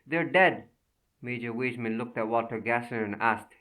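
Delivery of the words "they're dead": higher, loud shriek. Acted. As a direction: cry it out wildly. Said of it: "Anna Gassner shrieked".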